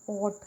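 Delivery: "ऑट" alone, the ending of thought without its first consonant; isolated rhyme sound. Shown as a demonstration. Teacher isolates the last sound of thought, rhyme ending only. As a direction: sound out just "ऑट", set apart by a pause. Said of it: "निकल रहा है इसमें से sound".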